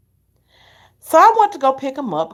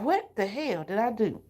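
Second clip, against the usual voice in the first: inner panic; 10 dB quieter than usual. Retold or imitated. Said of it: "I was like".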